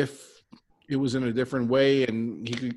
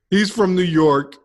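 emphatic shout; 6 semitones higher, 7 dB louder than usual. Real, not acted. Heated wrestling argument.

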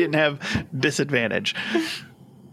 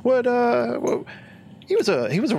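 Lich voice; 11 semitones higher than usual. Acted. Lich searching memory.

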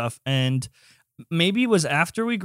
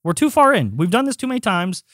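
heated, higher-pitched protest; worked up; 4 semitones higher than usual. Real, not acted. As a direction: argue your innocence, getting worked up. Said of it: "You need to cool down".

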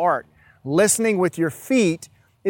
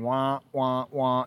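muffled low wah-wah trombone voice; Charlie Brown's teacher; 3 semitones lower, 5 dB quieter, slower than usual. Retold or imitated. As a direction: lightly imitate the cartoon teacher drone. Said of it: "Charlie Brown's teacher keeps going".

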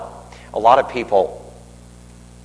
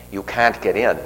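lightly imitated Boston accent; thick Boston accent. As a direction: echo the friend's Boston-accented refusal. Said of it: "with a real thick Boston accent".

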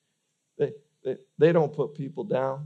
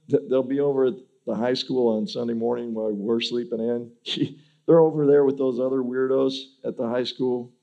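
mocking gossip; 3 semitones higher, 6 dB louder than usual. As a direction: scoff like a gossip pointing them out. Mocking outsiders sneer at believers.

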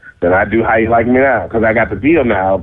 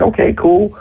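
higher-pitched cool brush-off; arrogant, cocky; 10 semitones higher than usual. Retold or imitated. Star answering a young admirer, arrogant and cocky. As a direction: accept the praise like it is owed. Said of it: "I'm still arrogant and cocky".

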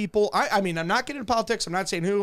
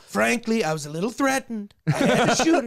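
Trump impression. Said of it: "your Trump impression's getting good".

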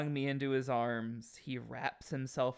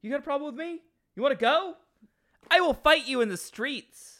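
loud, high bar-fight challenge; drunk brawler; 12 semitones higher, 9 dB louder, faster than usual. Pretend. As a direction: pick a fight like an angry drunk. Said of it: "I always thought it was".

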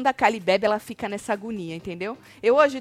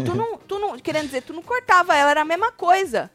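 lightly voiced higher quote of Black; quoting Black; 8 semitones higher than usual. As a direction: retell his protest in a touch of his voice. (imitando de leve o Black)

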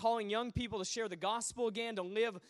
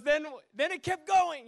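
high, loud imitation of disbelief; retold agitation; 6 semitones higher, 8 dB louder than usual. Young Brit telling the preacher it kept going, high and agitated. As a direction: raise pitch and volume as the astonished witness.

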